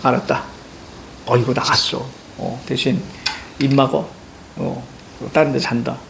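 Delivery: subdued, halting orders with long pauses; understanding instructor. Retold or imitated. Drill instructor lets homesick recruits be, subdued and lenient. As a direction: relent quietly, lightly acted. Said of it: "이해를 해주는 조교였어".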